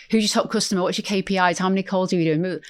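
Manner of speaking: mock sales-manager interrogation; quizzing boss. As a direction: fire off questions like a target-driven manager. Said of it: "I'm not sitting there saying".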